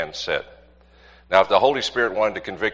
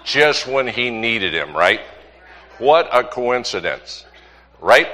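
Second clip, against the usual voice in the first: knowing irony; 3 dB louder, slower than usual. Real, not acted. Pointed rhetorical question.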